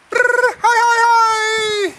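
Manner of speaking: sudden high yelled hey; high shout. Real, not acted. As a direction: call it out loud and high. Calling out at the end.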